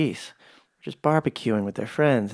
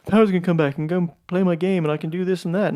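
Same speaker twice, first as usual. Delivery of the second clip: mock eager anticipation; 6 semitones higher, faster than usual. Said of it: "You're like".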